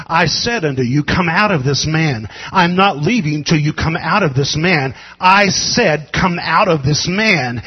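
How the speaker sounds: loud, relentless repetition; preacher booming the rebuke; persistent shouted command. Acted. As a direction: refuse to back down, keep demanding. Jesus repeating command.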